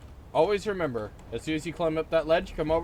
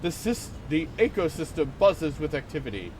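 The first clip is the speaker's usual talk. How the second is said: nature documentary. Pretend. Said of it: "Let's observe chat in its natural habitat".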